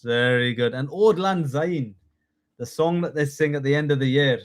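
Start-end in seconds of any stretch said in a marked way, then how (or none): 0.9-2.0 slow put-on Scottish accent. Shown as a demonstration. Teacher naming the new year song, Scottish accent. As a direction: stretch the words out in Scottish. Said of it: "Give me your best Scottish accent".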